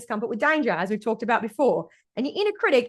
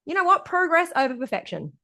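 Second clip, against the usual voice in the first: coach voice; 3 semitones higher than usual. Retold or imitated. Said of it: "It's gonna say things like".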